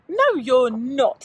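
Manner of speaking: slow, loud and firm; a big cat cutting the boy off; storybook tiger snapping back. Acted. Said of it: "snaps the tiger".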